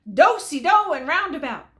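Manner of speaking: loud, high calling out; dance call shout. A narrator's reading. Cowhand riding off, hollering a square-dance call. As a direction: holler it like a caller at the hoedown.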